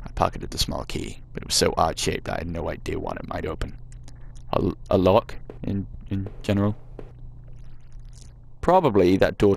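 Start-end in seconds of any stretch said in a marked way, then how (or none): 0.1-3.8 put-on reading the game text in a light American accent. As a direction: narrate it like an American storyteller, gently put on. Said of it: "I'm really regretting doing the American voice now".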